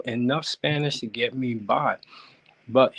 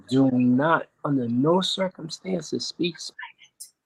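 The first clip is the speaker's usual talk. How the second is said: hushed warning; slower than usual. Retold or imitated. Caller retelling a friend's warning, hushed. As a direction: drop to a near whisper on the last words.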